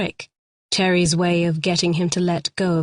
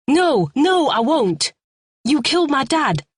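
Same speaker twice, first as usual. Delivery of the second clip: high, loud frantic refusal; distraught; 8 semitones higher, 3 dB louder than usual. A narrator's reading. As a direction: cry out in grief.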